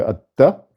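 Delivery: "atta" split by a held t; doubled t. Shown as a demonstration. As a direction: stop on the t in "atta", then release. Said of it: "un T".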